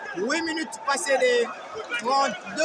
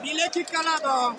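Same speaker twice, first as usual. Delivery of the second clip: excited commentary; 4 semitones higher than usual. Real, not acted. Live boxing commentary, fighters trading punches.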